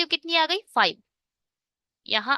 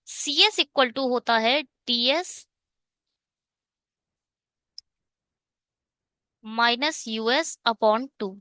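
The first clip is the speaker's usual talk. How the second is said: slow dictation; much slower than usual. Shown as a demonstration. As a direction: spell the formula out slowly, word by word. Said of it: "teacher slowly dictates formula". (धीरे-धीरे formula बोलना)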